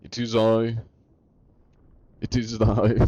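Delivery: lightly put-on archaic herald; trying out a grand old-time proclamation. Streamer practising thees and thous for an inspection, mock-archaic. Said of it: "thee and thous".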